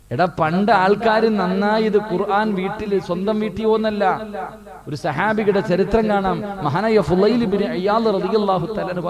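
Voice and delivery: emphatic sermon delivery; forceful preaching. Real, not acted. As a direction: preach it out to a big congregation. Preacher raises his voice.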